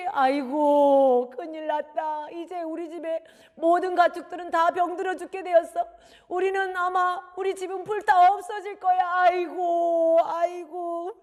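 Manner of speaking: high, loud, long-drawn moaning; wailing lament. Acted. Parent sure the livestock and house are doomed, wailing. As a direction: bewail the ruin with stretched cries of woe.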